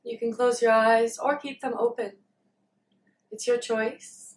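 calm meditation guidance with long pauses; unhurried, leaving long silences between phrases; guided meditation. Real, not acted. Leads a meditation.

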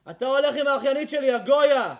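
fast, loud menacing threat at gunpoint; mock German soldier's threat; threatening German soldier. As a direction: bark it like a soldier holding a rifle. Nazi soldier threatening a Jew.

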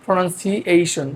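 প্রনাউন্সিয়েশন drawn out slowly; careful pronunciation. Shown as a demonstration. Teacher asks students to watch the pronunciation, slow and careful. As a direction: say প্রনাউন্সিয়েশন slowly, every syllable distinct. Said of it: "উচ্চারণটা দেখেন".

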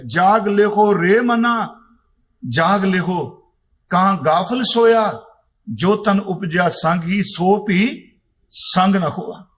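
slow, measured recital of the verse; slow devotional recitation; scripture recitation. Acted. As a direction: intone each line with reverence.

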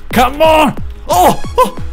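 loud, high shout; frustrated yell. Real, not acted. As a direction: yell at the game.

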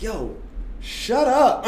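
laughing yell. Retold or imitated. Telling teammates to shut up.

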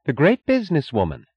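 high, mocking title; scornful. A narrator's reading. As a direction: sneer at the rival's reputation. Wife mocks her rival.

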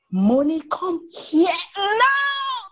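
high, drawn-out shouting call; mom's scream. A narrator's reading. Mom yelling for her son across the house. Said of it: "screamed their mom".

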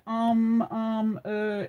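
drawn-out, droning imitation of hesitating; mock filler words. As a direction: imitate stalling on each filler. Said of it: "'cause I didn't say".

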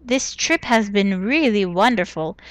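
a light, badly faked Indian accent from Jaipur; half-hearted Indian accent, barely put on; terrible Nishanti accent. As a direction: read the letter in a mild, hammed-up Indian accent. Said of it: "I'm doing a terrible Nishanti accent".

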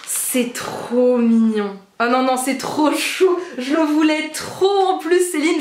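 slow, stretched gush of delight. Real, not acted. Thanking Céline for the blush, slow gushing delight. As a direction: savour each word, won over.

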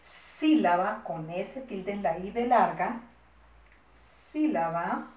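slow, spelling as you go; drawn-out words, measured for writing; slow dictation. Shown as a demonstration. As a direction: dictate slowly for pupils copying.

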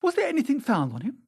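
high, urgent query; startled questioning. A narrator's reading. Dorian leaning toward the keeper, startled. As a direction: press him, pitched right up. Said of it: "looking at the man with startled eyes".

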